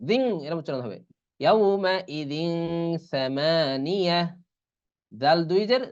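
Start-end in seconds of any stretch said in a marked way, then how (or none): 1.4-4.2 slow, stretched recital; Quran recitation. Shown as a demonstration. Teacher recites the example with ikhfa slowly. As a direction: draw out each syllable. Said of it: "তখন কিরকম হবে?".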